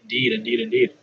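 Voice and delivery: mock formal. Playful mock-formal reply.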